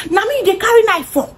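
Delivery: imitating a high angry yell; mock Tim's outraged shout; Tim screaming. Tim yells at the cousin holding a knife, mock-angry. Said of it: "Tim here is screaming".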